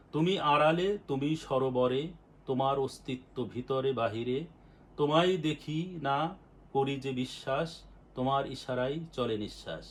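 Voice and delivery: devotional verse, each line lifted and then let fall; fervent recitation of a devotional poem. Acted.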